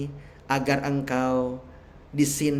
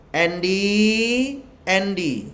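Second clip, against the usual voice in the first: higher, drawn-out rising call, then falling; 3 semitones higher, 4 dB louder, much slower than usual. Acted. God calls Pak Andy by name, calling out. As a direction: stretch the first call upward.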